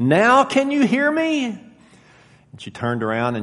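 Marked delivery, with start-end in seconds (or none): 0.0-1.4 very high, raised voice, almost shouting. Telling a story where a man moves right up behind her, retelling near-shouting. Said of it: "almost shouting".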